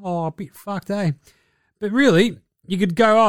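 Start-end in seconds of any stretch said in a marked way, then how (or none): 0.0-1.1 mock Ben Simmons reply. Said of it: "how's your knee there, Benny".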